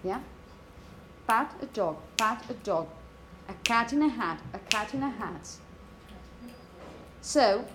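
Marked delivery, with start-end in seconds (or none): 1.3-5.5 "pat a dog" with a weak, content words hit; strong-weak rhythm. Shown as a demonstration. Teacher drilling the phrases, weak "a" and "in". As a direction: tap out the rhythm, skim the small words. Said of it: "which is going to be weak".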